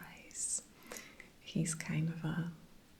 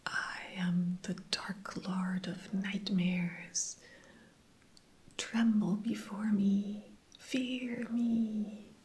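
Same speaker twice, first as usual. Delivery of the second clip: mock-menacing lines in a small squeaky voice, pitched up a little; squeaky tiny voice; 3 semitones higher, slower than usual. Fear demon Gagnar threatens the heroes, in a squeaky tiny voice. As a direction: make the dark lord sound tiny and squeaky. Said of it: "but in, like, this squeaky tiny voice".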